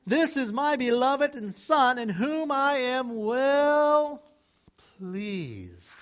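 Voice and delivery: slow, high, solemn proclamation; God proclaiming. Acted. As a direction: announce it slowly as God over his Son. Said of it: "God is saying about his Son".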